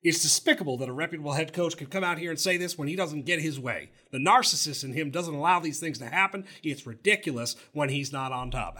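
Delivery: fast, lightly voiced indignant coach; a hint of an offended coach, sped up; Jimbo impression. Host imitating Jimbo attacking Saban, light mock impression. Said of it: "How's my impression?".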